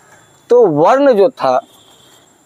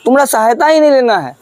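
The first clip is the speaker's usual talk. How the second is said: stubborn elder brother; 6 semitones higher than usual. Acted. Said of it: "बोला कि".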